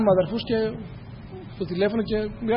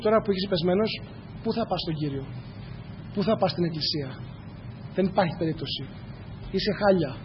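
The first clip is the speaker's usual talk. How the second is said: voice of the enemy; 5 dB quieter than usual. Retold or imitated. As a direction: softly voice the enemy's discouraging taunt. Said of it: "Αυτή είναι η φωνή του εχθρού".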